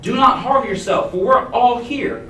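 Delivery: Paul calling out high and loud to the jailer; calling out loudly. Acted. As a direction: shout it out to the jailer to stop him. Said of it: "Paul called out loudly".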